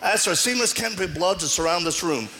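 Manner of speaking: fervent deliverance prayer, rising in command. Retold or imitated. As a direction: pray it out with authority, like binding a spirit. Retells his deliverance prayer.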